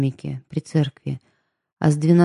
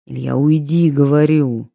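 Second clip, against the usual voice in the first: louder commanding order; stern order; 6 dB louder than usual. Acted. The prince ordering Ilya to leave, louder stern command. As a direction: order him out, firm and loud.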